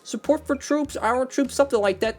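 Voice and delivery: suddenly thrilled by a detail he never noticed; real excited discovery. Real, not acted.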